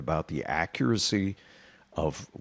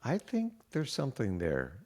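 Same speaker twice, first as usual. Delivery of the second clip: evil scientist voice; 6 dB quieter than usual. Real, not acted. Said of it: "You almost dropped into an evil scientist voice".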